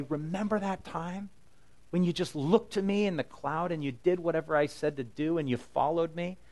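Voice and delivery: lightly voiced God, wistful; God's voice. God voiced recalling past.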